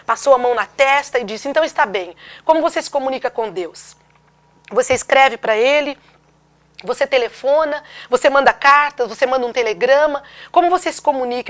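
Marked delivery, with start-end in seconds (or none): 1.5-11.5 raised, louder volley of questions; exasperated questioning, retold; anguished doctor. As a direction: press each question harder, as a distressed doctor. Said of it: "Ele então, angustiado".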